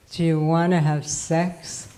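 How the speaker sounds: husband's come-on voice. Retold or imitated. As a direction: slide into his would-be sexy voice. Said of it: "man kinda puts that voice on".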